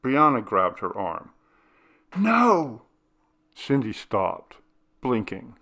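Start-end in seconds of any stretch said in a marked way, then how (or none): 2.2-2.8 a high, loud, urgent no; sharp cry. Acted. Girl stopping her sister, a high loud cry. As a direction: stop her dead with one word. Brianna stops sister riding coaster.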